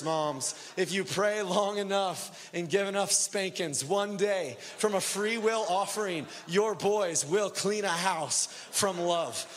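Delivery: rally the moms in the house like a revival preacher; preaching at full force. Acted.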